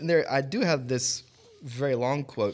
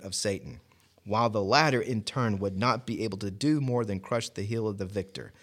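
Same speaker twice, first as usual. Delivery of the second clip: measured, solemn reading aloud; formal reading. Acted. Reading a Bible commentary to friends, measured and solemn. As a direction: read the old commentary with weight. Reads a long commentary quote.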